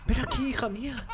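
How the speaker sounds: high falsetto call; mock sweet calling. Streamer calling the doll in a high mock parent voice. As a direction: coo like a creepy parent.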